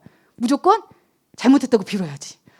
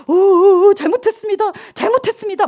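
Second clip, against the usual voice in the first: put-on high, loud, trembling plea of a frightened kid; scared crying plea; 8 semitones higher, 7 dB louder than usual. 훔치다 걸린 아이가 주인 아저씨에게 겁에 질려 비는, 떨리는 울먹임. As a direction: beg for forgiveness through tears. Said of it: "무서워서 어쩔 줄 몰라 하면서".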